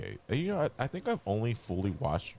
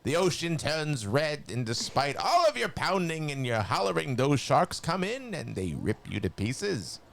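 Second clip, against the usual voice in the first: a hint of cartoon Skeletor telling a grim war story; 6 semitones higher than usual. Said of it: "I can probably read this in my Skeletor voice".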